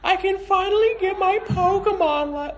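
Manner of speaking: high, bright boy cartoon voice; Ash Ketchum. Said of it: "Ash Ketchum, uh, I'll play that".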